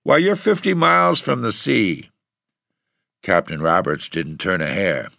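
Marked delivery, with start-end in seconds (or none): 0.0-2.1 much higher and louder, incredulous; astonished exclamation. A narrator's reading. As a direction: exclaim in disbelief. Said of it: "cried landlord".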